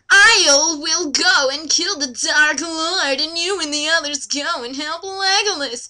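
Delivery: slow, a touch grand, hammed-up wizard; lightly voiced Gandalf. Reading Gandalf aloud to a friend, slow and mock grand. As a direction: drag it out like a mock-solemn wizard. Gandalf line read in character.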